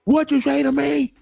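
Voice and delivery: high, loud angry yell at him; angry shout. Retold or imitated. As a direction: bark it like an outraged neighbor. Angry neighbor confronting him.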